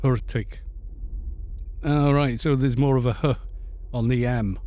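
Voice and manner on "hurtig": Hurtig with a dropped H, like artik; Norwegian pronunciation. Shown as a demonstration. Streamer trying the chat's Hurtig, Norwegian style. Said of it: "Hurtig means quick in Norwegian".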